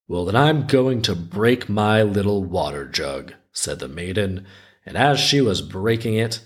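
measured folktale reading with lilting rises; story narration. A narrator's reading. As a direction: read it like a children's tale, lingering on phrase ends. Reads the folktale aloud.

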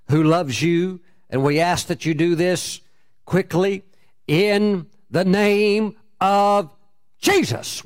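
slow, deliberate retold prayer in short phrases. Landlady praying for his future spouse, solemn prayer. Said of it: "Pray the prayer".

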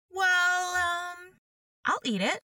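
put-on young Alice making up her mind; hesitant young Alice. Alice decides to eat cake.

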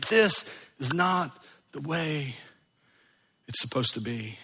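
hushed, grave conviction; quiet inner resolve. Acted. Same words repeated inwardly.

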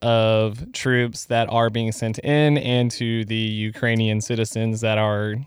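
measured, even public-statement delivery; earnest-sounding statement of sympathy; formal disclaimer. Pretend. Reads out a mock-official disclaimer.

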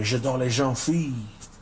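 lightly done French accent; slow French accent, cartoon-lover style. Shown as a demonstration. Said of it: "watching a lot of Pepe Le Pew".

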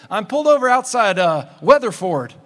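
loud, fast imitation of a frantic friend; mock panic. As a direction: blurt it out like a stranded, panicking friend. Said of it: "I'm freaking out".

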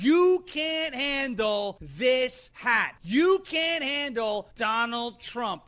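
drawn-out shout, every word hammered; slow shouted rant. Acted. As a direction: bellow it slowly at the audience. Ranting clip opener.

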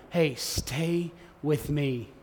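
slow, soft plea, drawn out; pleading gently. Retold or imitated. Jesus begging the disciples, slow tender plea. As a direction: beg them tenderly to stay, very slowly. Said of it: "hear their teacher beg them".

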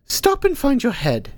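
put-on high, slow and firm old voice; steady the panicked pupil; refocusing old teacher. Hilda Dee refocusing Ank, firm and slow. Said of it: "Hilda Dee tried to refocus".

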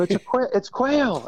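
high, breathless stumble over the word; excited. Retold or imitated. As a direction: trip over the word in thrilled rush. Telling the students it's quail.

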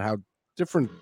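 ordinary talk, nothing marked

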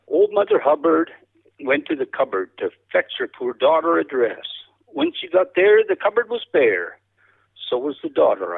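lightly sing-song nursery rhyme recital; cowboy poetry. Pretend. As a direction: recite it like a joke poem, rising on the rhymes. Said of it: "that's a sad excuse for a cowboy poem".

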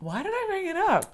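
high, laughing question. Real, not acted. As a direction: giggle the question out. Laughing at own tangent.

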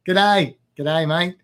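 playful mock Aussie greeting; amateur Australian hello; Australian accent. Shown as a demonstration. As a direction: put on an Australian "G'day, mate". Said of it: "I'm much better at".

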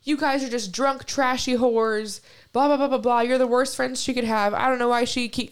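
mock angry rant. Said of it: "going off on us".

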